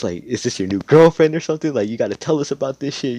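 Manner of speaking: lightly voiced gushing mom; excited mom. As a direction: pester like a nosy mother. Excited mom pries about girlfriend.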